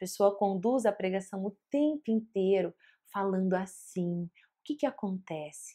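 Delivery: same low, flat drone throughout. Describing a preacher's mistake of speaking the whole sermon in a low tone of voice. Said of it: "um tom de voz mais baixo".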